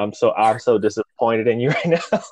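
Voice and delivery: retold disappointment breaking into laughter; laughing mock scolding. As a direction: scold him, then crack up.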